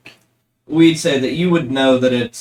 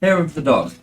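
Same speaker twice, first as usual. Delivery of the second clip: a lightly voiced, much higher ship speaking up; a hint of a tipsy sentient boat; living ship voice; 6 semitones higher than usual. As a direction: play the ship as a pleased old drinker. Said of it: "the boat says".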